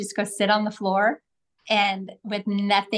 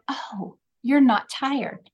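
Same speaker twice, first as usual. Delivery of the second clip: calm echo; 3 semitones higher, much slower than usual. Shown as a demonstration. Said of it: "and you say".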